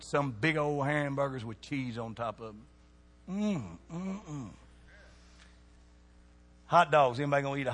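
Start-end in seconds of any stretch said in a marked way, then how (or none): 3.3-4.5 drawn-out yummy "mm, mm, mm"; savoring mmm. Pretend. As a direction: hum as if tasting something delicious. Savoring the thought of hamburgers.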